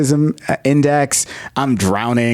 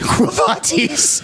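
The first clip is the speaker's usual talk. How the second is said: slow, high mock-solemn question; hammed-up Jesus; 9 semitones higher, slower than usual. Jesus asking Peter where he goes, slow mock-solemn. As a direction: drag it out like a grand movie line.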